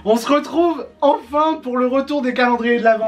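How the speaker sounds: intro de youtubeur. Real, not acted. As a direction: open the video with high, bouncy energy. Accueil enjoué en début de vidéo. (salut de youtubeur enjoué)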